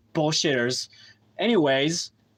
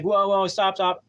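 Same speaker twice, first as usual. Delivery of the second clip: urgent halt; 3 semitones higher than usual. Retold or imitated. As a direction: imitate a guy hurriedly halting someone. Guy halting the tow driver.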